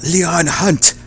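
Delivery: lightly voiced villain, slow and deliberate; menacing gang boss. Gang boss greeting his old enemy, menacing. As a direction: relish the threat, in no hurry.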